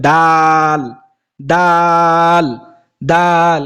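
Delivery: "দাল" said light and normal; plain dal. Shown as a demonstration. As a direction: keep the "দাল" simple. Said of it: "একেবারে স্বাভাবিক উচ্চারণে".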